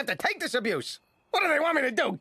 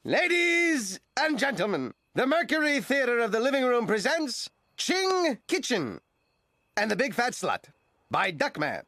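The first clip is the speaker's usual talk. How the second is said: theatrical announcer. Acted. Duckman announces his play.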